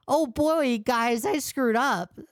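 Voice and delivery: high-pitched mock admission; mocking imitation. Commentator mimicking Jar's response to followers, mockingly.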